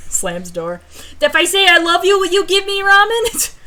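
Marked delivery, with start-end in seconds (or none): 1.2-3.5 high, loud wheedling bargain; mock pleading. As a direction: beg shamelessly for food. Begging for ramen, bargaining.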